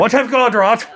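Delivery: high-pitched playful quote; mock exclamation. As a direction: blurt it high like an excited text. Mock replay of the first message.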